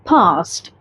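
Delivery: फर्स्ट ending on a crisp retroflex T; British फर्स्ट, no R, hard T; British pronunciation. Shown as a demonstration. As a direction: clear British first. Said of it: "ठ sound है".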